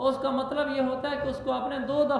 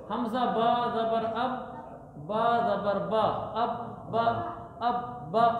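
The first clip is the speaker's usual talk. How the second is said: spelling drill. Shown as a demonstration. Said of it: "teacher spells out the word".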